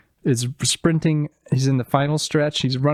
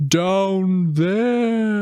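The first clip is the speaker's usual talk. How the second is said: parrot quote; 7 semitones higher than usual. Retold or imitated.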